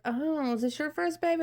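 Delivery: high-pitched imitation of a nurse; retold cooing question; friendly curiosity. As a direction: lift it high in sweet inquiry. Nurse asks the new mother.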